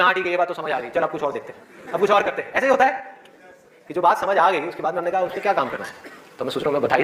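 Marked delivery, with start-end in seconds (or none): 0.0-2.5 lower-pitched, lightly acted indifference; casual brush-off. Student moving on to another tip, mildly dismissive. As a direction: lose interest and move along. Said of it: "आप कहोगे".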